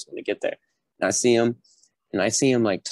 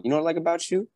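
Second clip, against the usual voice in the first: drill instructor voice; 9 semitones higher, faster than usual. Retold or imitated. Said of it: "And he's like".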